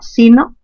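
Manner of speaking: sino stressed SI-no. Shown as a demonstration. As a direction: force on the first syllable of sino. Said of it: "aquí está la fuerza en sí".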